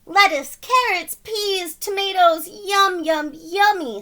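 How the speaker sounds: high, loud, gleeful list; delighted. Acted. McGreely dreaming of his vegetables, delighted. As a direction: savor each veggie name. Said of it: "said Mister McGreely".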